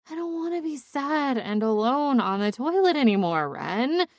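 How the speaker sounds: lightly acted drunken lament; tipsy self-pitying friend. Drunk cheerleader lamenting to her best friend, mildly melodramatic. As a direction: complain with mild tipsy melodrama.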